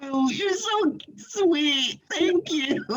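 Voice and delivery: high, slow, laughing thank-you. Real, not acted. Guest laughing her thanks to the host. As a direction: gush through a giggle at the compliment. Flattered after host's praise.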